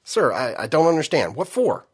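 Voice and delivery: rising, flustered private; panicked confusion; startled protest. Acted.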